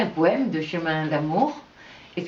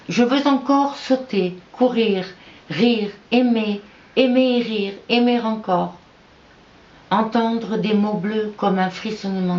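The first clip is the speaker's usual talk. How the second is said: measured, projected poem reading with clear pauses; poetry recital. Acted. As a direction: recite it line by line, with emphatic delivery. Reads own poem aloud. (récitation de poème, voix posée et appuyée)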